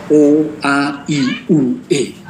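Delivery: vowels O, A, I, U, E articulated clearly, one by one; artikulasi jelas. Shown as a demonstration. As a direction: sound out each vowel separately: O, A, I, U, E. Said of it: "Artikulasi saya kira jelas untuk kita". (vokal O, A, I, U, E diucapkan jelas satu per satu)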